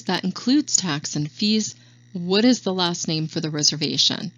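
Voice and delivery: even falling tone on the price; matter-of-fact price. Shown as a demonstration. Agent trainer demonstrating a confident price to a caller, matter-of-fact. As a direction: state "a hundred and thirty dollars" flatly, then straight into the question. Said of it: "state it in a matter-of-fact tone".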